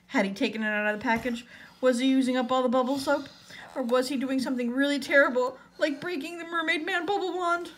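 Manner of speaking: mounting worry, pitch climbing; worried. A narrator's reading. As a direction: build anxiously question by question. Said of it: "he started to worry".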